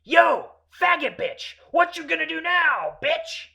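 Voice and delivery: high, very loud taunting yell; full shout. Retold or imitated. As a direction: holler the challenge at his back. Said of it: "I hear him shout".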